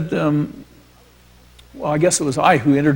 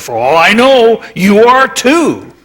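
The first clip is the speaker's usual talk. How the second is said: Rexroth's teasing jab; 8 semitones higher, 7 dB louder, slower than usual. Retold or imitated. Rexroth quoted teasing him.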